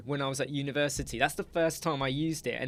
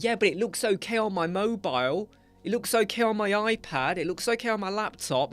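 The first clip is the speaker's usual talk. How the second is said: a client's voice, raised higher, lightly mocked; mocking a client; 6 semitones higher than usual. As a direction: whine it like a stubborn client. Client defending small-screen view.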